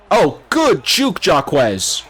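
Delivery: high, drawn-out delighted cheer; excited cheer. Real, not acted. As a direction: cheer the juke, slowly. Cheering a good run.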